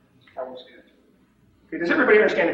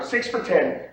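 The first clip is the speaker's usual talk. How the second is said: slightly raised practice call; a little louder; slower than usual. Shown as a demonstration. Trader practicing alone at home, a little louder. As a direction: lift the volume just a notch. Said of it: "you say a little louder".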